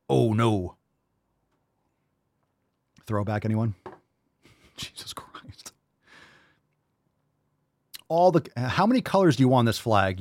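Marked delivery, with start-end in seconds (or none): 3.8-5.7 whispered through a laugh; laughing disbelief. Real, not acted. Laughing at the flag in whispered disbelief. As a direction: gasp it out while laughing.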